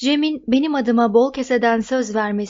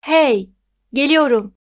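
mild call, raised in pitch and slightly louder; a lightly raised hail; 3 semitones higher, 4 dB louder than usual. A narrator's reading. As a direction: call after friends to catch their attention, without a full shout. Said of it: "Walter seslendi".

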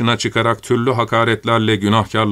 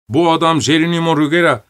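higher-pitched public accusation; frenzied accuser; 6 semitones higher than usual. A narrator's reading. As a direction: denounce him to the townspeople. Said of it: "deliye dönmüş topluluktan biri".

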